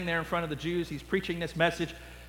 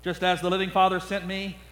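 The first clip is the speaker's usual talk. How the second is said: solemn scripture voice. Acted. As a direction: let the last words sink to a hush. Jesus quote.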